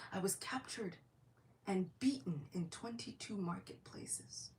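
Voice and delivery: grave whisper, slowing down; hushed whisper. Acted. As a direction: let the old trauma sink in quietly. Haridas recalls his ordeal.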